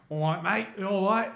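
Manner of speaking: chirpy rising Cockney greeting; Cockney accent. Acted. Showing how Cockney blends into Australian, put-on Cockney accent. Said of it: "if you do the Cockney".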